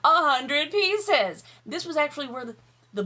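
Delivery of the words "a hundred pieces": emphatic. Real, not acted. Emphatic echo of own promise.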